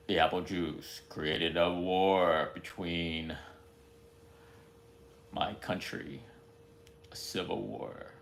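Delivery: lightly done epic movie-trailer announcer, drawn out. Acted. Imitating a trailer narrator for a coming film, slow and dramatic. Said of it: "my life story in that voice".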